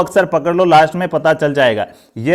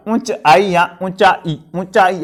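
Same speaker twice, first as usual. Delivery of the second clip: slowly spaced out; slower than usual. Shown as a demonstration. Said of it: "थोड़ा सा gap करके छोड़िएगा".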